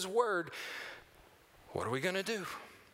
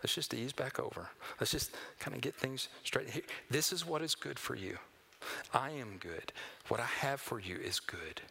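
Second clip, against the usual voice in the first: soft, lower, ending in a whisper; gentle coaxing; 4 semitones lower, 4 dB quieter than usual. Retold or imitated. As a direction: coax them back tenderly. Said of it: "he is going to just gently say".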